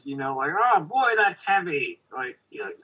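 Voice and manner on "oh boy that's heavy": Stan Lee voice. Retold or imitated. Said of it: "he shows up in Thor and he's".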